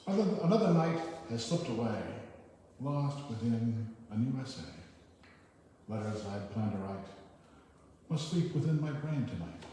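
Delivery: measured verse with pauses between lines; short poem reading. Acted. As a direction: recite it line by line, lifting the opening. Reads a short poem aloud.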